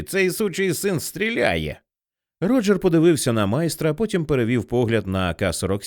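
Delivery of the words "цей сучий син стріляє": slow, high frightened cry; alarmed shout. A narrator's reading. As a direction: warn of the gunman. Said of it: "закричав хтось із братів Бові".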